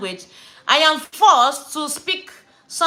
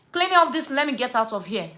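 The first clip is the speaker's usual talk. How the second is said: controlled annoyed order, dropping at the end; retold firm demand. Customer refusing the polish, firmly demanding to leave. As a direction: re-enact a curt dismissal.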